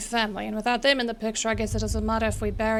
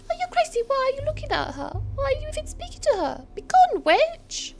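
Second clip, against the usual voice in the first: outraged villager; 5 dB louder than usual. Acted. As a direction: shriek at the witch to leave. Voicing angry NPC shouting witch.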